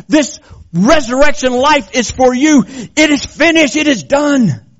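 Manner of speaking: fiery preaching. Acted. Preacher proclaiming victory to the congregation, fervently. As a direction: preach it with full force.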